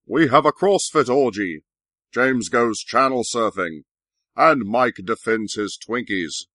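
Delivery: punchy announcer-style teaser; show teaser. Acted. Host teases tonight's show to listeners, announcer style. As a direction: announce tonight's line-up, each item falling away.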